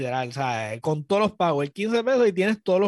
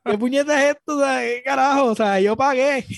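higher, louder indignant cry; mock outrage; 7 semitones higher, 4 dB louder than usual. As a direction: play up the fury at having paid. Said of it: "este está llorando".

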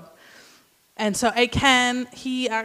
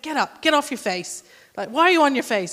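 a hint of a hard, scolding God; stern rebuke; 4 semitones higher, 5 dB louder than usual. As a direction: chide him to stand up. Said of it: "he's so hard".

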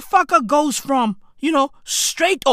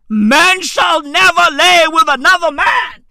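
mock preacher; 5 dB louder than usual. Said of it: "They believe in God".

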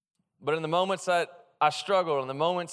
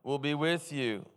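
call and response; 4 semitones lower, slower than usual. Shown as a demonstration. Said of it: "Everybody say that with me".

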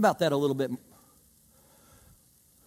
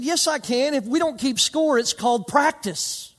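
higher, cocky comeback; defiant retort; 6 semitones higher than usual. Retold or imitated. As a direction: shut them down with a grin. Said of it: "I said".

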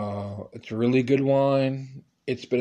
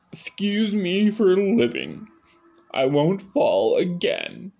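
high defensive whine; 4 semitones higher, slower than usual. Retold or imitated. Snapping back at strangers.

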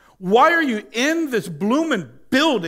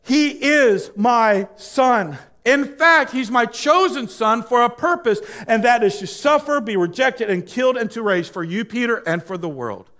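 shouting Father; 3 semitones higher than usual. Retold or imitated. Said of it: "God the Father shouted out from the cloud".

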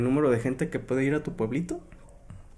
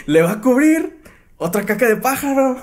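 high, louder salesman voice; mock sales pitch; 10 semitones higher, 4 dB louder than usual. Friend joins in mocking the agent, high salesman voice. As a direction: sell it like a cheesy ad.

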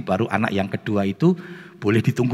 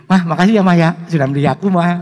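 louder, higher jolly imitation; mock cheerful thanks; 7 semitones higher, 6 dB louder, faster than usual. Child thanks mother at wedding blessing, mock cheerful. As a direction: gush thanks as if laughing. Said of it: "Kok saya belum pernah guyu".

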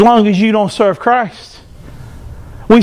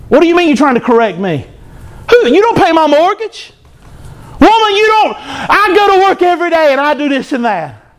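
indignant husband; 5 semitones higher than usual. Retold or imitated. Proud husband scolding wife.

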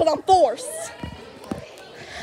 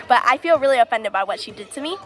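put-on Southern accent; faster than usual. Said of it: "Where's your Southern accent?".

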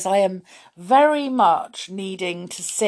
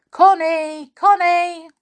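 higher and louder, calling out for Connie; 12 semitones higher, 8 dB louder than usual. Acted. Moonface calling Connie at the door, loud. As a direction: call her name across the tree. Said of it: "He called loudly".

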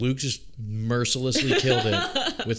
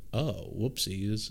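sheepish mock oops; 6 dB quieter, slower than usual. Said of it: "And he's like".

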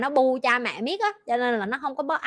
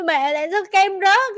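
higher, innocent asking voice; puzzled little child; 8 semitones higher, 5 dB louder than usual. Retold or imitated. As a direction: ask like a baffled toddler. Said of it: "nó kêu".

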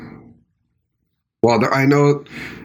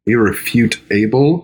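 slow careful try; slower than usual. Shown as a demonstration. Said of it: "There's some rolled R's in that one".

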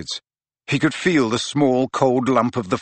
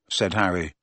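ordinary delivery, nothing marked

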